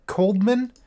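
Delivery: "Coldman" slowly, as a second option; alternative pronunciation. Shown as a demonstration. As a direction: say "Coldman" carefully, keeping the D after the L. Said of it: "discovered that it's not Coleman".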